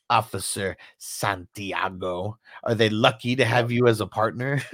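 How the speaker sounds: lightly voiced slimy boss, dragging it out; scumbag chief. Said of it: "acting like a scumbag".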